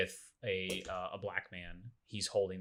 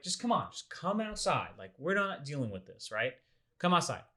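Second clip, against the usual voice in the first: impatient cops; 6 semitones higher, 3 dB louder than usual. Retold or imitated. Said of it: "They're just like".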